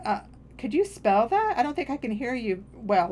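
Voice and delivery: lifted, questioning, taking the blame; retold self-blaming politeness. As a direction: politely ask as if it's your fault. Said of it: "put it like it's my fault".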